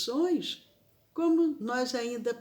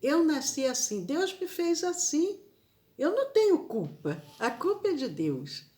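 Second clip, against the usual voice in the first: higher, whiny mock excuse, fast at "eu não tenho culpa"; mock the people who blame God, pitched up; imitating excuse-makers; 5 semitones higher than usual. Preacher imitating those who blame God, higher whiny mock. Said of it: "que dizem assim".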